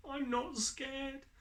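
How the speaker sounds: put-on high, defiant little-child voice; child boasting in the dark wood; brave child. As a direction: insist on it like a small kid being brave.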